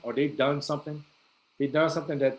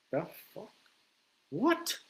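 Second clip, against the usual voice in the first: high shocked squeak; startled; 7 semitones higher, 4 dB quieter than usual. Retold or imitated. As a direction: jump to a high startled what. Startled by the scene.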